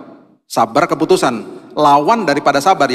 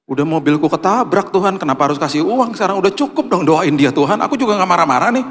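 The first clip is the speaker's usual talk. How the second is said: higher, fast, mock-annoyed complaint; a hint of sulking protest; complaining to God about giving money, mildly put out; grumbling at God; 5 semitones higher than usual. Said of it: "Aku dongkol dalam hatiku".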